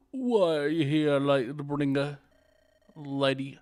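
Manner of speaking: slow, otherworldly sage; eerie sage voice. Acted. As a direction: ancient spirit speaking slowly.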